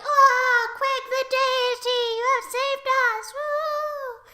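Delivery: high, hammed-up adoring cheer; mock worship. Dwarves bow down to Quake, high mock worship. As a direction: hail him high, ending in a whoop.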